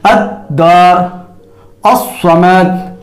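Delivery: अद्दार and अस्समद drawn out slowly, doubled consonants held; अद्दार with held dd, अस्समद with held ss, both slow; slow demonstration. Shown as a demonstration. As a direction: model each word slowly so the doubling is heard. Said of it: "मिसाल के तौर पर".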